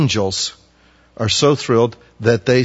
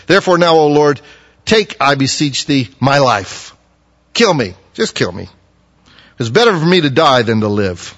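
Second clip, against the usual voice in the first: despairing plea; 3 semitones higher, 4 dB louder than usual. Acted. Jonah begs God to die.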